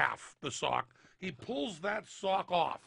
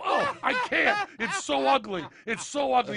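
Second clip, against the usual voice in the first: hammed-up squeamish cry; disgusted recoil; 6 semitones higher, 4 dB louder than usual. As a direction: shrink away from the ugly toe. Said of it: "And you go".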